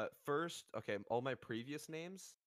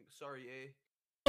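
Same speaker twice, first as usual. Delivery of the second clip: slow, drawn-out mock Canadian apology; put-on Canadian politeness, rising at the end; 4 dB louder, much slower than usual. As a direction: tease with a stretched Canadian "eh". Joking about Canadians, stereotype phrase.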